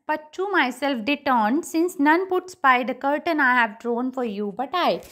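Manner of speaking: slow reading with pauses between phrases; poem recitation. Acted. Teacher reading the duke's words before explaining them, measured recitation. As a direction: recite the verse at a measured pace.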